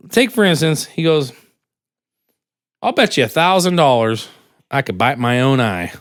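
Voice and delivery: lightly voiced old hustler making a bet; a hint of a crafty old man. Old guy voiced in joke.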